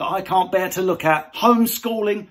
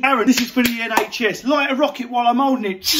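excited idiot; faster than usual. Pretend. Mocking a man asking mate to light a firework he's holding, fast and excited. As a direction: shout it like a reckless lad.

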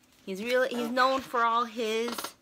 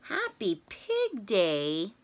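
lower, slow, questioning Gerald line; puzzled Gerald; 3 semitones lower, slower than usual. Acted. Gerald repeats it to Piggie, low and puzzled. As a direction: echo it back, lower and unsure.

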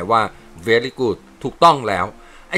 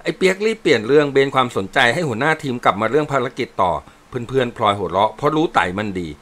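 ordinary delivery

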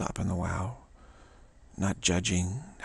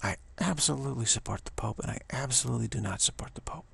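measured stress on "absolutely" in both halves; absolute, unequivocal. Shown as a demonstration. Teacher modelling absolute statements on both sides, unequivocally. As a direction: give both opposites equal conviction, stressing "absolutely". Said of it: "We're taking absolute statements on both".

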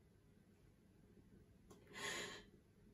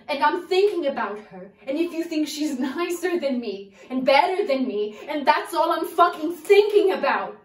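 rising hurt outburst; 3 semitones higher, 8 dB louder than usual. Acted.

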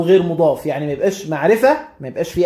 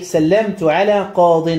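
slow example reading; slower than usual. Shown as a demonstration. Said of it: "في المثال ده بنقول إيه".

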